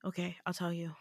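soft, low-key giving in; quiet retold concession after a sigh; resigned. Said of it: "he sighs, and he goes".

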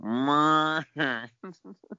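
high rising llama bleat; llama noise. Pretend. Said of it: "the first noise sounded like a llama".

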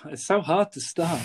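frustrated whisper under the breath; co-host hears a hushed groan of frustration. Real, not acted. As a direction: whisper it to yourself in despair. Frustrated aside during recording.

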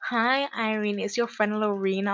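lightly imitated fake caller voice, slightly high; Lorena, weird prank-call voice. Friend prank calling as Lorena, lightly put-on weird voice. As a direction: mimic a friend disguising her voice. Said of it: "She put on, like, this weird voice".

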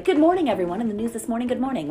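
a hint of DJ patter; radio DJ. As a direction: chirp it like a morning radio host. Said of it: "solo D J thing".

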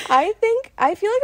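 high giggle breaking into words; can't stop laughing. Real, not acted. Laughing to her cohost about staying twenty-one.

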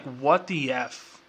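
slow, drawn-out disbelieving what the F; reading the headline, slowly stunned; stunned disbelief. Retold or imitated. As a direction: let it sink in slowly, baffled. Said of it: "I'm like".

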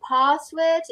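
"password" with a long AH, PAHSS-word; posh long A. Shown as a demonstration. Teacher explaining posh speech, long AH in password. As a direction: say "password" the posh way, open AH vowel. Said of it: "it's very posh".

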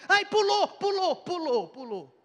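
high, fussy parent cooing; mock fussing parent. Preacher mocking a parent who fusses over a fallen child, high and cooing. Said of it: "A criança cai".

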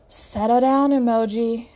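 a firm command; stern, no-nonsense order; demanding. Acted. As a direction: put her in her place. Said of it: "Mataré demands".

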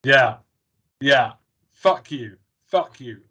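loud mock yell fading off; angry mock yell. Fan cheering Rachel on against Ross, loud mock yell. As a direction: shout it at Ross, then trail off. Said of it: "You're like".

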